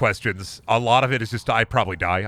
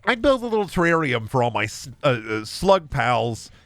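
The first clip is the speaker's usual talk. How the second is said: funny answer. Pretend. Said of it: "The funny answer would be like".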